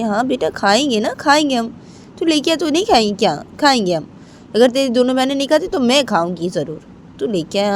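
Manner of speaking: calming her upset son; coaxing mother. Acted. (बेटे को मनाती माँ की ऊँची आवाज़)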